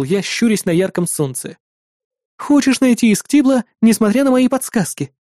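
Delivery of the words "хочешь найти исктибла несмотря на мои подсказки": put-on higher young woman, questioning; Julie's voice. A narrator's reading. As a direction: press him with a sharp question. (Жюли упрекает Вала, голос выше)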